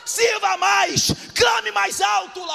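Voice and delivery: loud, slow, chanted preaching; shouted sermon climax, drawn out; preaching at full force. Acted. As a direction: cry each command out like a call.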